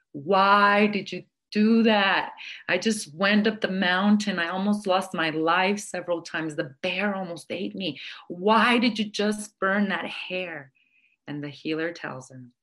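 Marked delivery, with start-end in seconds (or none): 0.1-10.7 crying out in distress. Retold or imitated. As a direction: wail it at the healer, heartbroken. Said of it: "And the woman starts to cry".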